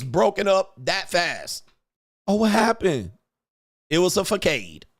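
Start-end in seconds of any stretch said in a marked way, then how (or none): 2.3-3.1 high, sing-song mock surprise. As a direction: fake innocent gasp of a question.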